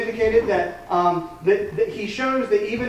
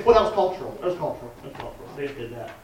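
dismissive; 6 semitones lower, faster than usual. Retold or imitated. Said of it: "we're very quick to say".

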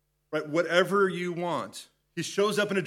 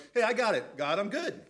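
self-righteous; 5 semitones higher than usual. Retold or imitated. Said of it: "that self-righteous going".

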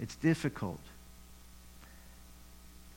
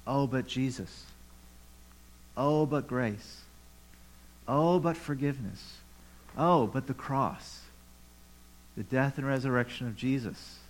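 mock dismissive excuses. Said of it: "read this and say".

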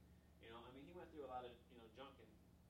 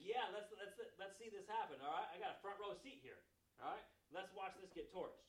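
gleeful Jonah; 4 semitones higher, 5 dB louder than usual. Acted. Preacher voicing gleeful Jonah.

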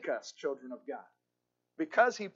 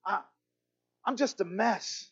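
higher-pitched, exasperated confession of failure; discouraged; 6 semitones higher, faster than usual. Acted. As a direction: act out a discouraged disciple pouring out his failings. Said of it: "He was so discouraged".

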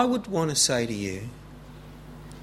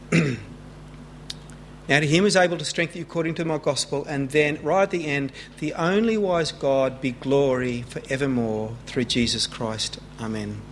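scripture reading; 3 semitones lower than usual. Shown as a demonstration. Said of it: "this is how the passage ends".

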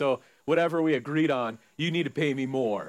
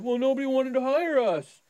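workers excusing; 8 semitones higher than usual. Acted. Workers answer the master.

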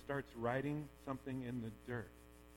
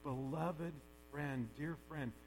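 tender; 4 dB quieter than usual. Retold or imitated. Jesus speaking gently to the forgiven woman, tender and soft. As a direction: gently tell her she is worth more. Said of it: "looking at this woman and saying".

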